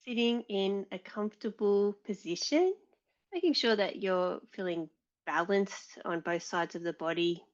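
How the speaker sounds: calm meditation lead with long pauses; guided meditation. Real, not acted. Yoga teacher settling the class before practice, guided meditation. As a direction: guide them gently inward, leaving space after each instruction.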